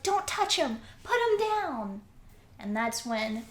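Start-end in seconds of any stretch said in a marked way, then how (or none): 0.0-2.0 high-pitched mock scream at modest volume; screaming in protest. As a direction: imitate a girl frantically defending a boy. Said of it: "Nora's screaming at the soldier".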